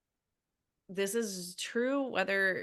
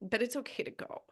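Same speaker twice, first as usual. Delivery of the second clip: teary goodbye; 6 semitones higher, much faster than usual. Real, not acted. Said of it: "This is making me teary".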